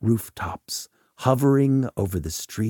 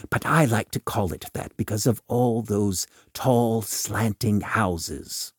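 Volk, cryptic adviser; 2 semitones higher than usual. Acted. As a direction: lay out a veiled offer with careful emphasis.

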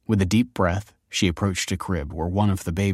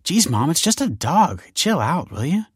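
snapping; 10 semitones higher, 3 dB louder than usual. Acted. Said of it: "snapped Olive".

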